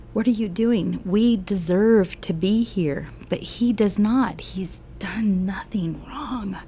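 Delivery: P=A; firm rebuke. Acted. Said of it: "he rebuked him".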